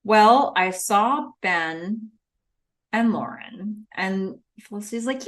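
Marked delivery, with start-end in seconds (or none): 0.0-3.9 halting mock storytelling with long pauses; painfully slow. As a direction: drag out the explanation, pausing between phrases. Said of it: "he goes so slowly".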